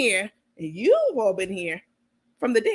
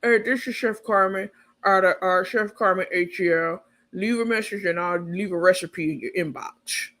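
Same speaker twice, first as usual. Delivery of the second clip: mock voicemail greeting; 3 semitones lower than usual. Carmen's voicemail greeting acted out.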